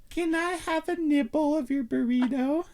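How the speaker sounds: high, sweet mock voice; mocking Kate. Imitating Kate asking for a nibble, high and sweet. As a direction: ask in a sugary high voice. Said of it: "Kate goes".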